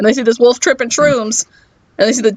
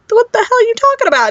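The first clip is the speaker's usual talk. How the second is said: high indignant wolf; 12 semitones higher, faster than usual. Acted. Wolf voiced in retold story.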